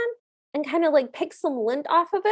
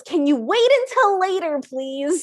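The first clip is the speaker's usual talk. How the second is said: huffy; 2 semitones higher, 4 dB louder than usual. Retold or imitated. Prince putting off the king mid-dance, mock huffy. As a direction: fend off a nagging parent, acted huffiness. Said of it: "No need to get huffy".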